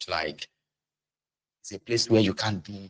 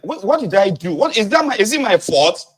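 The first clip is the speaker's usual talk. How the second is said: much higher hurt wife voice; a wounded, baffled protest; imitating Agbeke; 10 semitones higher, 6 dB louder than usual. Wife Agbeke asking her husband if it's her fault, higher. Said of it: "Agbeke will be like".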